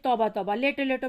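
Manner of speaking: loud, flustered pleading; alarmed fussing. Acted. Wife urging her sick husband to lie back down, loudly. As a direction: fuss over him urgently.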